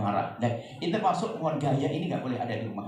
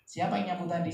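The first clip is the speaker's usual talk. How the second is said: gentle asking; 3 semitones higher than usual. Shown as a demonstration.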